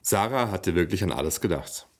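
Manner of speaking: even-paced reading with livelier dialogue; measured literary read-aloud; story narration. A narrator's reading. Reads next chapter aloud.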